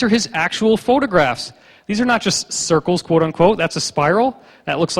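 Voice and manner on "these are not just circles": ordinary talk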